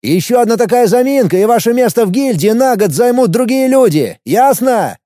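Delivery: high, forceful dressing-down; angry reprimand. A narrator's reading. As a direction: raise your voice and lay down a threat.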